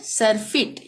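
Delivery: सरफिट with a short ई in the last syllable; careful model सरफिट, short final vowel. Shown as a demonstration. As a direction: keep the vowel of फिट short. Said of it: "यहाँ पे छोटी ई का".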